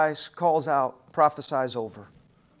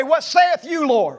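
bold declaration; 2 semitones higher, slower than usual. Shown as a demonstration. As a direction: preach the response out boldly. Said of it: "I want you to respond and say".

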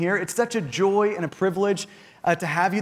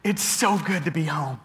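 relieved sigh; 4 semitones lower, 3 dB quieter than usual. Retold or imitated. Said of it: "took a deep breath and said just out loud".

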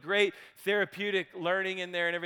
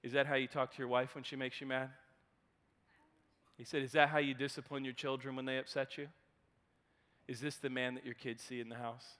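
softer, calm, steady questioning; quiet probing question; 8 semitones lower, 11 dB quieter, faster than usual. Retold or imitated. Old therapist quietly confronting the angry man. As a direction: ask it gently but pointedly. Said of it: "Wayne says to him".

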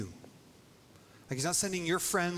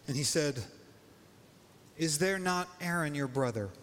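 solemn reading of the passage; scripture reading. Acted. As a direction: read the verse with weight. Reads scripture passage aloud.

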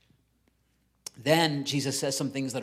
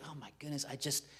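quietly imitating giving up, much softer; a drained, barely voiced I'm done; mock exhausted mutter; worn-out sigh; 6 dB quieter than usual. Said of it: "I get to the point where I feel like".

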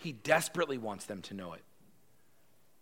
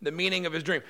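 self-important official; 6 semitones higher, 7 dB louder than usual. Acted. Arioch presenting Daniel to king.

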